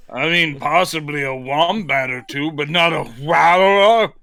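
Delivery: put-on Australian accent. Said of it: "Say it again".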